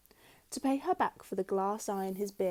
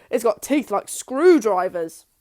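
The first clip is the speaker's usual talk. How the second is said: slow, louder, spooky; menacing husband; 12 dB louder, slower than usual. A narrator's reading. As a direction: drag it out to frighten her. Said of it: "Mister Twit said".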